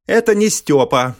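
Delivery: put-on a child booming from under foam. A narrator's reading. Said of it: "раздался гулкий голос из-под пены". (гулкий голос из-под пены)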